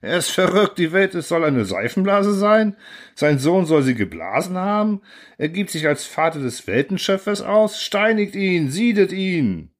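high, furious crowd voice rising to a call for stoning; angry mob. Acted. The outraged council demands the narrator be boiled, high and furious. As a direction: whip the mob into a frenzy.

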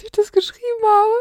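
high, laughing helplessly; cracking up mid-line. Real, not acted. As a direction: dissolve into giggles. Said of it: "ich hab einen Lachflash". (hilflos lachend)

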